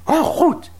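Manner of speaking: breathless whisper. Acted. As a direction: whisper in amazement. Sneaking puppies out quietly.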